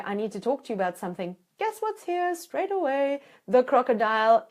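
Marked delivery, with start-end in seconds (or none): 0.0-1.3 fast, blunt and hurried; rushed blunt opener. Shown as a demonstration. Coach shows the wrong way to start a hard talk, rushed. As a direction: blurt it out, all at once. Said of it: "if you come to someone and you say".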